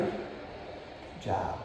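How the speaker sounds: soft whispered praise. Real, not acted. Trainer whispering praise over the lying dog. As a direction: breathe it out as a whisper.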